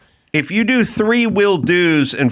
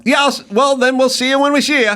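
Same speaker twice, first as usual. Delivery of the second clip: mock wrap-up voice; 9 semitones higher, faster than usual. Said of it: "when you start hearing things like".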